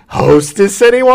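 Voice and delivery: bright high rising commercial mom; sing-song TV mom. Retold or imitated. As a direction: offer the tray like an ad. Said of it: "She walked through".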